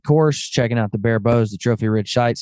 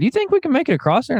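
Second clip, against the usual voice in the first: high mock buddy voice; 12 semitones higher, faster than usual. Buddy asking while driving truck.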